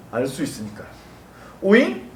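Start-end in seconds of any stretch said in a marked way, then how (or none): 1.6-2.1 high, cartoonish "huh?"; mock puzzlement. Preacher playing a puzzled listener, mock surprise. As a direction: pipe up as if baffled.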